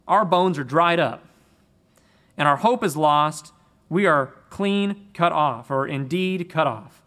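weighty, emphatic lament of the exiles; emphatic quote. Retold or imitated. Preacher voicing the exiles' lament with emphasis. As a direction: lean hard into their despair, a bit slow. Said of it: "he's actually very emphatic here".

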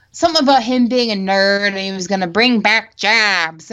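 lightly mocked nerdy Midwestern governor; a hint of terrible Muppet in the voice; Rick Snyder. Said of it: "like a terrible Muppet character".

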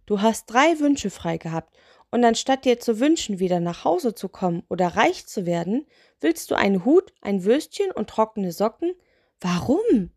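mildly baffled, pitch lifting; incredulous. Acted. Spirit questions her three wishes, mildly incredulous. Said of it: "sah sie ungläubig an".

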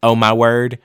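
lightly voiced teacher saying oh my word; imitating Susan. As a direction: mimic her sweet church-lady exclamation. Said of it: "And she went".

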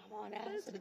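high voice with laughter; laughing. Retold or imitated. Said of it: "I'm like".

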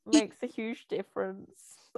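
slow deadpan sarcasm; sarcastic. Acted. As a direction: drag it out as a mock compliment. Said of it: "That was a joke, everyone".

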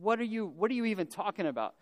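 stammering, baffled retort; mock bewilderment. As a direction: she can't believe what he's saying. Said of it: "She thinks that Jesus has lost his mind".

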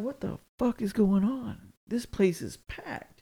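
high, slow puzzled exclamation; bewildered. Retold or imitated. Me walking into the packed Walmart, high and slowly baffled. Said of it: "I'm looking around like".

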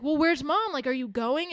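hammed-up panic over a missing mom; mock panicked daughter. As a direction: play the frightened daughter lightly. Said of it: "Danielle starts freaking out".

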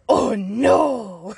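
a half-sobbing, half-laughing "Oh, no"; tearful laughing cry. Real, not acted. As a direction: cry out as it finally lands on you. Overwhelmed by the realisation.

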